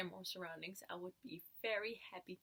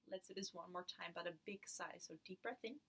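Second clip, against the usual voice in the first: guided meditation. Acted. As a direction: lead them gently into stillness.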